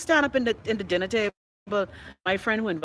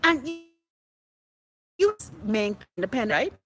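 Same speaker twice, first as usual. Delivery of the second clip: retold dinner rebuke; 4 semitones higher than usual. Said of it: "I was like".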